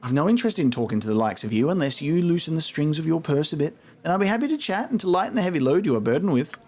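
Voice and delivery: lightly voiced mercenary thief; pushing for a bribe, sly; greedy rogue voice.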